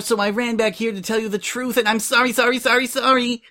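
high breathless rush that climbs to the end; frantic confession. A narrator's reading. Coco blurting the truth to Prim, frantic. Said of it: "Coco couldn't keep it in any longer".

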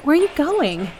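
calling after. Acted. Girl runs off.

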